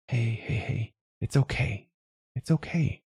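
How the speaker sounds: soothing, hushed comfort; soft whisper. A narrator's reading. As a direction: whisper gently to calm a crying child.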